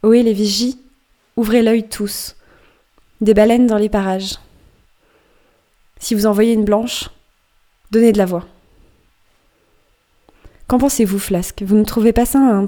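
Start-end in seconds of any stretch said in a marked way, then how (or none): 0.0-8.5 calling out. Acted. Captain hailing the lookouts about whales, called out. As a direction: call it up to the mastheads. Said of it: "Écoutez, que crie-t-il?".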